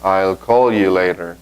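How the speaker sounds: slow, careful English example; slow model sentence. Shown as a demonstration. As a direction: say it slowly so they can copy. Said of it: "Yo puedo decir". (ejemplo en inglés, despacio)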